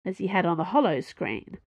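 plain reading voice

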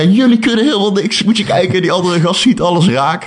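high, mocking old father scolding his sons. Father scolding his sons while shooting, mocking and high. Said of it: "zegt die vader".

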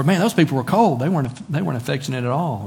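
mock gripe about cold people; mock complainer. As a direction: grumble like a disappointed visitor. Mimicking complaining churchgoer.

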